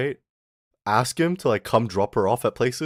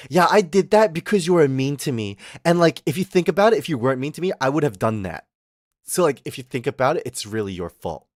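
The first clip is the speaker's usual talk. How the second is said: mocking girlfriend voice; 3 semitones higher than usual. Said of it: "And they're like".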